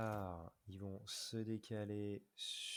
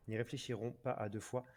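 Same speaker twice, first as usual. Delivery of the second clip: story narration; much faster than usual. Acted. Lit le texte de la bataille.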